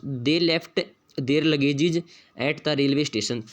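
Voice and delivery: reads the test sentence very slowly, word by word; slow dictation reading. Shown as a demonstration. Teacher reading the question sentence aloud, very slow. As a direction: spell it out slowly for the class.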